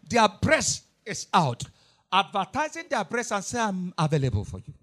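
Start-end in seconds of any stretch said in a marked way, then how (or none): 3.6-4.7 mocking a seductive offer, much lower and softer, quick; mock seductive mother. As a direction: sneer it as a lewd invitation, low and hushed. Mothers mocked as offering themselves.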